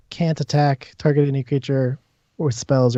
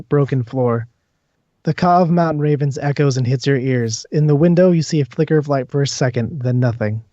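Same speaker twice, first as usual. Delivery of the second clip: measured, descriptive narration; game master's scene setting. Acted. Game master describes an eerie house to the players, measured narration. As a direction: paint the scene for the players, phrase by phrase.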